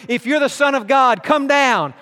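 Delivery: mocking taunt. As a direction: taunt him from below the cross. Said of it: "they're mocking him".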